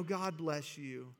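slow, put-on pastoral blessing; fake pastor blessing. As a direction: bless them like a mask you wear. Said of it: "the pastor, I love you mask".

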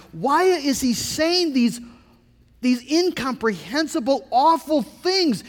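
high-pitched, drawn-out disbelief; dumbfounded. Acted. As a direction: voice the disciples' bewildered protest. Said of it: "had to be absolutely dumbfounded".

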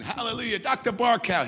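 mildly hyped retold hallelujah; fired up. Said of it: "I'm always fired up".

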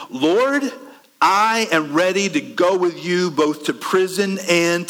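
earnest vow, "Lord" pitched high; bold declaration. Acted. Peter vows loyalty to the Lord, boldly earnest. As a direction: declare it loftily, high opening.

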